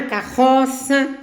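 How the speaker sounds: CARROÇA drawn out slowly, the double R like a strong H. Shown as a demonstration. Teacher gives a double R example, slowly enunciated. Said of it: "têm o som forte".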